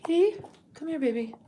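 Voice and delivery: high coaxing pet voice, lifted on kitty; sweet high call to a cat. Real, not acted. Calling the cat.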